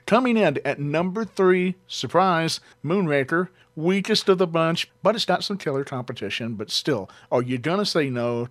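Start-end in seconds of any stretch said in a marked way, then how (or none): 0.1-6.5 higher, punchy countdown host; Casey Kasem countdown. Pretend. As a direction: announce it like a top forty DJ. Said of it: "I'll do a little Casey Kasem deal here".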